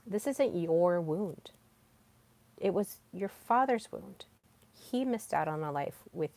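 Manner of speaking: softly voiced, with long pauses; quoted gentle counsel. AI consoling Salem about a father's wound, gentle counsel. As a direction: break it to them gently, unhurried. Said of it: "He's like".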